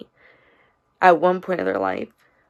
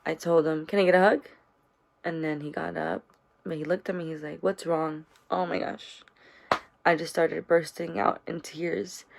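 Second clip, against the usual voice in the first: holding back tears. Real, not acted. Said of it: "I'm sorry if I'm gonna ugly cry".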